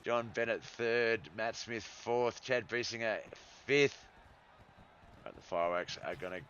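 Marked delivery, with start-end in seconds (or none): 0.0-4.0 louder, building finish call; excited race call. Acted. Calls a close finish.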